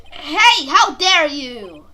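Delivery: loud indignant outburst; outraged. Acted. Defense attorney snaps at insulting prosecutor, loud. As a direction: bark it back at the prosecutor.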